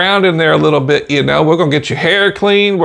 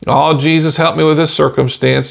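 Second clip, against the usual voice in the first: passive prayer. Retold or imitated. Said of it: "passively getting up in the morning and saying".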